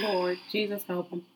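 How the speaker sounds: lightly voiced church auntie; a hint of a praying church lady; sanctified auntie. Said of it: "That sounds like somebody sanctified auntie".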